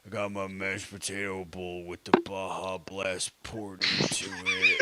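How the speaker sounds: low, drowsy, slurred mumble; groggy voice. Retold or imitated. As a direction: mumble it half asleep and groggy. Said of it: "he'd have that groggy voice".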